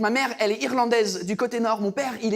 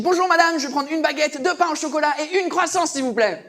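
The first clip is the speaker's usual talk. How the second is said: polite customer; 5 semitones higher than usual. Acted. Acts himself ordering in bakery.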